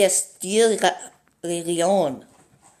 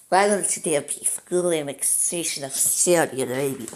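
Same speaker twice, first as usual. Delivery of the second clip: put-on Russian accent, slightly German; 2 semitones lower than usual. Gamer justifying full annexation of Saudi Arabia, mock Russian accent. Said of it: "doing my Russian voice".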